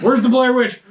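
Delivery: high, very loud redneck holler; pissed-off redneck. Acted. Redneck hunting the Blair Witch, mock angry yell. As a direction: yell out as a riled-up witch hunter. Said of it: "all the rednecks were pissed off".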